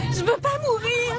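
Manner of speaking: the fear boils over into a scream-like plea; panicked cry. Acted. Panicking in the stuck car.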